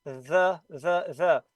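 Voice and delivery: The buzzed with the tongue between the teeth; The voiced, bite the tongue slightly. Shown as a demonstration. Teacher demonstrating the voiced th to the class. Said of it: "produce a beautiful T H voice sound".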